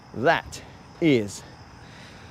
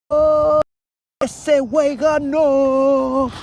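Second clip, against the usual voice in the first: much higher and louder, slow drawn-out call; announcer call; 13 semitones higher, 6 dB louder, much slower than usual. Pretend. He imitates the announcers calling his win, high and drawn-out. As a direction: belt it out like a commentator.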